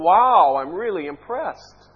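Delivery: mock awe, punched loud on the first word; mockingly impressed God. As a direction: pretend to be impressed, sarcastically. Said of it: "you're making a mockery of this".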